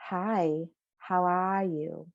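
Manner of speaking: lightly imitated Midwest or New England accent; a hint of a regional Midwest or New England accent. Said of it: "If you're from the Midwest".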